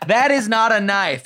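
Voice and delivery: imitated Aussie movie-line delivery; attempted Australian accent. Shown as a demonstration. Host showing off for Australian guest, attempted Aussie accent. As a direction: try on an Australian accent for the quote. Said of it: "Did it sound right?".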